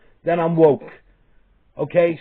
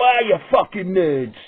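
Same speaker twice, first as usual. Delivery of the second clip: mocking jeer; 5 semitones higher than usual. Thugs jeering at kids.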